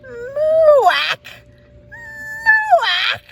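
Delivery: squeaky high cry, cow moo gone wrong; a duckling failing to moo; duckling trying to moo; clumsy moo-quack. Acted. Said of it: "the best he could do was".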